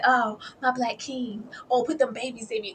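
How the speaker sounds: a hint of a hammed-up adoring fiancée; mock swooning bride. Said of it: "got her ass up there and said".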